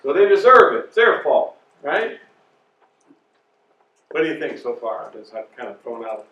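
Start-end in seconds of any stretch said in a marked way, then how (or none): 0.0-2.2 rising mock indignation, a bit louder; mock blaming. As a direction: ham up the blame, higher and louder. Mocking the blaming attitude.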